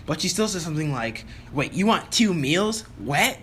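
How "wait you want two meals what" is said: slow, mildly incredulous imitation, higher on the question; toned-down disbelief. Waitress questioning a two-meal order, mild mock disbelief. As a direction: draw out the question in mock puzzlement. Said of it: "that's not exactly what she said".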